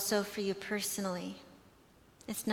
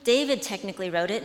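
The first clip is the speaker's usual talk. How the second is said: higher, louder, fast flustered defending; 4 semitones higher, 5 dB louder, faster than usual. Retold or imitated. Airplane seatmate flustered when corrected about David, flustered. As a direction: hurry to defend herself, caught off guard. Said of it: "she was so, like, flustered".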